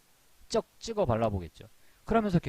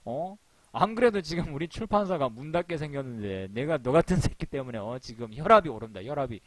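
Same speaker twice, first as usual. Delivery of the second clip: mock angry boss; 2 semitones higher than usual. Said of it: "나쁘게 얘기하면 화내겠죠".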